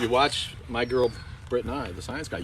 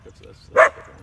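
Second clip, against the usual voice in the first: high squeal; 9 dB louder than usual. Real, not acted.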